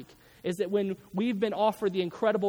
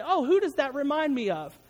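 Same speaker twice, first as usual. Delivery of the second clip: church lady impression; 6 semitones higher, 3 dB louder than usual. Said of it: "And she'd say".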